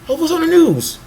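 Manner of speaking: high, airy mock thought voice; a scatterbrained head voice; flighty inner voice. Voicing her jumpy thoughts at lunch, high mock voice.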